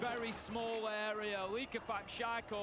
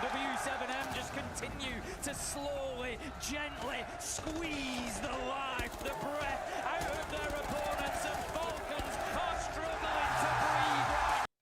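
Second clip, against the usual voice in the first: dramatic caster call; 4 semitones higher than usual. Acted.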